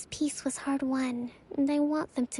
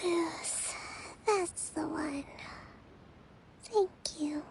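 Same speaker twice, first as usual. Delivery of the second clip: soft, sleepy whisper; fading into sleep as she speaks, barely voiced; drowsy whisper; 3 semitones higher, 7 dB quieter, slower than usual. Real, not acted. Drowsy Kokomi drifting off.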